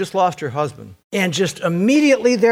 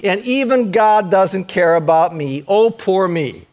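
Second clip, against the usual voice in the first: mock self-pity; 3 semitones higher than usual. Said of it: "one of those moods".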